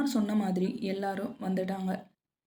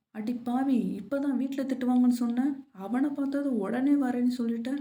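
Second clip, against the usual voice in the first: higher, exclaiming friend's telling-off; mock scolding; 4 semitones higher, 3 dB louder than usual. The speaker teases Priya for agreeing at once, mock scolding. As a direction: tease her with an incredulous scolding.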